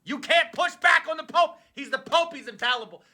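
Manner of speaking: high, scolding explanation; lightly voiced fed-up believer correcting him; exasperated Catholic. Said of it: "every Catholic is like".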